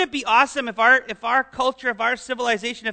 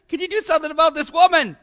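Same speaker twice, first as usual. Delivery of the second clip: mock whiny disciples; 6 semitones higher, 4 dB louder, faster than usual. Disciples' complaint acted out.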